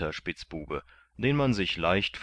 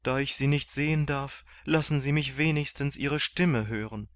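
pleading; 7 semitones higher than usual. A narrator's reading. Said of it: "fragte Kandid schluchzend".

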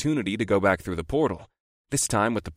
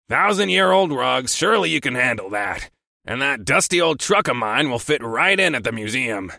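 higher, gloating snide taunt; snide glee; 3 semitones higher, 4 dB louder than usual. A narrator's reading. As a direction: relish the insult. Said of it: "snideness and near glee".

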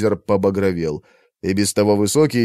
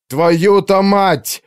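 very slow, much higher, louder roared curse; yelled curse; 9 semitones higher, 4 dB louder, much slower than usual. A narrator's reading. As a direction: roar the curse in despair. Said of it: "заорал Артур". (Артур в отчаянии орёт ругательство)

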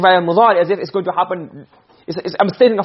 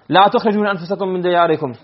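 rapid recited verse; quick Arabic quote; fast recitation; much faster than usual. Shown as a demonstration. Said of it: "I'm just telling you".

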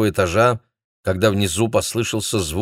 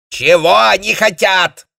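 much higher, louder impatient demand; an officer who wants answers now; sharp, impatient question; 13 semitones higher, 9 dB louder than usual. A narrator's reading. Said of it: "нетерпеливо спросил комендант".

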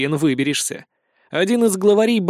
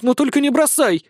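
desperate begging; 8 semitones higher, 3 dB louder than usual. A narrator's reading. Cat begging not to be abandoned.

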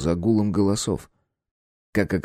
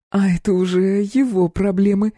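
dismissive; 11 semitones higher, 4 dB louder than usual. A narrator's reading. Klyopka dismissive.

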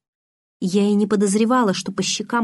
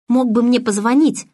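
louder, higher reproach; reproachful exclamation; 5 semitones higher, 5 dB louder than usual. A narrator's reading. Girl reproaching Edward for not calling, louder and higher. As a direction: cry out in reproach. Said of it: "с упрёком воскликнула я".

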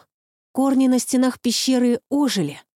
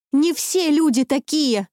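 higher, louder exclamation; exclaim; 7 semitones higher, 3 dB louder than usual. A narrator's reading. Lucy protesting to Baba Yaga, loud exclamation. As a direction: cry it out in protest. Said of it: "воскликнула Люси".

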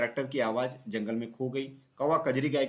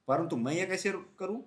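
cow voice; 6 semitones higher than usual. A narrator's reading. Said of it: "Kajri गाय बोली".

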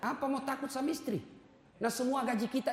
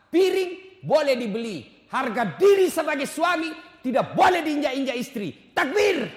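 rousing shout; 4 semitones higher, 9 dB louder than usual. Real, not acted. Preacher rousing the crowd.

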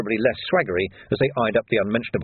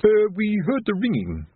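slow, higher, timid voice; nervous Colon; 10 semitones higher than usual. A narrator's reading. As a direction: swallow and speak timidly.

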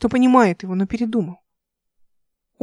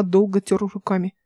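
ordinary delivery, nothing marked

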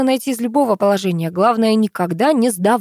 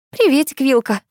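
higher, cheery hello; light, high-pitched friendly greeting; smiling greeting; 6 semitones higher than usual. A narrator's reading. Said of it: "заулыбалась Аня".

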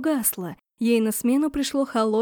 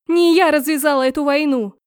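loud, high angry retort; shout back; 4 semitones higher, 6 dB louder than usual. Acted. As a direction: yell it back at him. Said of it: "крикнула в ответ".

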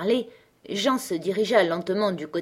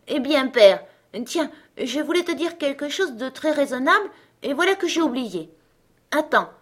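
put-on much higher child's voice pleading; little girl voice; 6 semitones higher than usual. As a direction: voice a sweet ten-year-old begging.

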